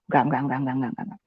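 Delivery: low, hushed refusal under the breath; reenacted private protest, fading to almost nothing; timid muttering. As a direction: mutter it so the friend won't hear. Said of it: "saya tidak berani mengatakan itu di depan teman saya".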